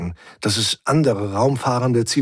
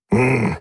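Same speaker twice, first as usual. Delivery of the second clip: short grumbling hum; grumbled hm. A narrator's reading. Hubert reacting with arms crossed, grumbled hum. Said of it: "brummte Hubert".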